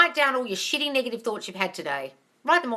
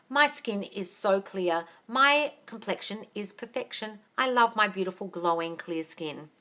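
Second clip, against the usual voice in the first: slow, soft, self-assured affirmation; 3 dB quieter, slower than usual. Shown as a demonstration. Coach showing viewers a skin affirmation, slow and soft. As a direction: say it slowly, like you already believe it. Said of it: "Start saying those things as you're putting it in".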